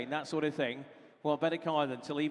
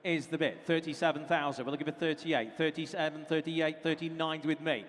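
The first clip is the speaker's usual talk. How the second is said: auctioneer. Acted. Auctioneer calling bids.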